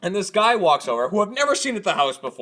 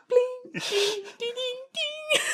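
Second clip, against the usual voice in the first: imitated piano tune; 6 dB quieter, much slower than usual. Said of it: "sounded like you had a little piano".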